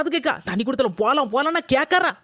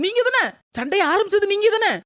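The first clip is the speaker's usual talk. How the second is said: accusing, raised; 5 semitones higher than usual. Acted. Blaming mother-in-law in quarrel.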